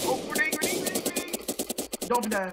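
high urgent warning yell; grenade warning yell. Real, not acted. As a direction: shout the warning to teammates.

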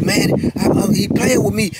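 high, stammering defensive excuse; flustered excuse. Retold or imitated. Sergeant stammering an excuse to the captain, high and flustered. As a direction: caught out and fumbling for words. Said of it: "So he like".

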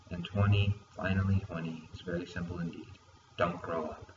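measured poem reading, each numbered point announced firmly; spoken list poem with pauses between items; poem recital. Acted. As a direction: recite your own poem, lifting each opening and easing off at line ends. Reads own poem aloud.

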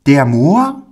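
high rising astonished question; a child who can't believe his ears; astonished boy. Acted. Pauli asks the man in high, rising astonishment. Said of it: "fragte Pauli höchst erstaunt".

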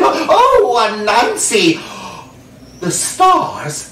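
high, astonished oh; amazed wife. Acted. Wife staring into the sack, high amazed voice. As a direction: gasp at the gift.

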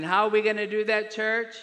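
loud, quick call to the congregation; preacher's question. Real, not acted. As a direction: toss the question out for the church to answer. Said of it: "I'll ask it again".

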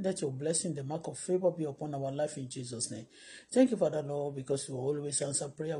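ordinary talk

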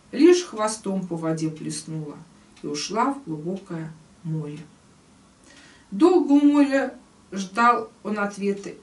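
emphatic storyteller, line openings punched; expressive tale reading. Acted. Teacher reading the old man's plea to the fish, expressive storytelling. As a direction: read the verse tale out with rise and fall. Reads the tale aloud in verse.

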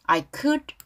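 "could" on its own, ending in a light D; weak D. Shown as a demonstration. Teacher models the lyric before explaining, D kept weak. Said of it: "could 할 때 드 발음 약해".

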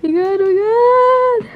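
high slow relieved cheer. Real, not acted. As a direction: stretch it out, relieved. Relief near midnight.

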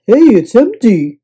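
happy discovery; pleased surprise. A narrator's reading. Guest to bellhop, pleasantly surprised.

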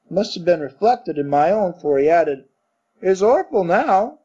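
a hint of a scared Cockney servant; Cockney bellboy, frightened. Thomas confessing his fright to his master, light Cockney. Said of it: "Cockney dialect".

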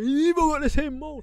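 high-pitched mock exclamation; imitated online replies. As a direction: squeal it like an astonished commenter, mocking. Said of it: "that's what the replies are saying".

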